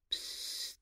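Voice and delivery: very soft, voiceless psst; secretive little hiss for attention; whispered hush. A narrator's reading. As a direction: hush them under your breath. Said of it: "súgta".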